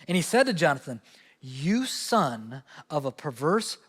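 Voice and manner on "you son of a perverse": a slow drawn-out insult, a touch lower; slow mock curse. A preacher quoting Saul's rage, slow and understated. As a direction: Saul lashing out at his boy, in a drawn-out mock curse. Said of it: "he lashes out at his boy".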